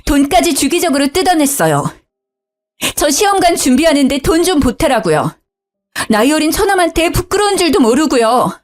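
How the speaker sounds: high, upset outcry; angry wailing. Acted. Wife crying out in anger to her father-in-law. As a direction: pour out the betrayal in rising anger. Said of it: "저는 화가 나서 울부짖었죠".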